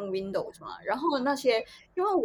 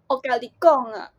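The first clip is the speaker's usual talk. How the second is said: Taiwanese accent imitation; 6 dB louder than usual. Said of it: "是你们的话吗".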